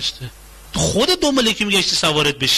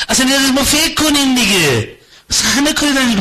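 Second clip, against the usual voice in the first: laughing carefree; 8 semitones higher, 3 dB louder than usual. Acted. Acted carefree spouse.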